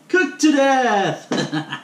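very slow, high, drawn-out Irish show title; fake Irish accent. Host announcing the show title in a mock Irish accent. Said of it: "sorry for the fake accent there".

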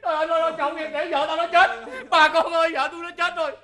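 gào kêu bà con rối rít. Acted. Chồng than khóc vợ chết. (kêu trời than vãn làm quá)

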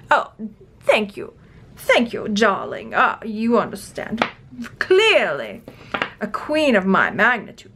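lightly put-on royal English accent; the Queen granting thanks, grandly; imitation of a self-important monarch; gracious queen. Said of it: "The queen is like".

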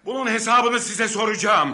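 high, loud furious threat; defiant shout. Acted. Threatening the thugs.

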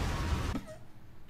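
soft, voiceless laugh; breathy stifled laugh. Real, not acted. Viewer amused by a man ready to die, soft laugh. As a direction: let a quiet laugh escape.

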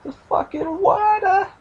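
put-on loud, high, dragged-out Bill Burr-style accent. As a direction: exaggerate the accent, high and slow. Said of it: "that stupid Bill Burr accent thing".

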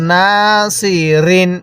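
long held "না", then "সি, রিন"; drawn-out vowel. Shown as a demonstration. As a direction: stretch "না" before "সি, রিন". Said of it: "এরকমভাবে শিখব".

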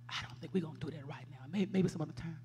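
low, soft, quick brush-off; imitating the pastor, turn her down quietly; understated, low-voiced no; quiet pastor refusal.

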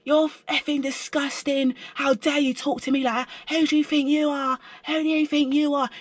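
high, mock northern English rant; Northern English accent. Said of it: "she was from up north".

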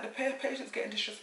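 high-pitched midwife announcement; imitated concerned midwife. Imitates midwife clearing the room.

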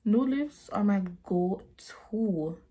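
slow laughing whisper. Real, not acted. To viewers about her favourite lipstick, a whisper. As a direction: confide it in a giggly whisper.

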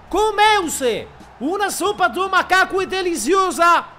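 a joke catchphrase yelled out; meme shout. Acted. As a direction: bellow the meme line.

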